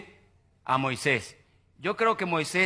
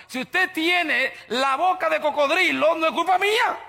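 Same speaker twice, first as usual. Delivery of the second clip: fiery teasing; 7 semitones higher, 3 dB louder than usual. Real, not acted. Preacher scolding sour-faced churchgoers with a rising teasing shout. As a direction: tease them, rising and louder.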